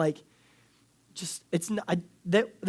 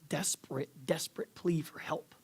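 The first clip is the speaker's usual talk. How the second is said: 1 whisper; 7 dB quieter than usual. Real, not acted. Describing son's desperate plea.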